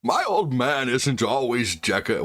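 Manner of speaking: slow, lightly voiced old man; drawn-out old sage reading. Streamer reading chat as an old man, slow. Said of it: "I could do other old men".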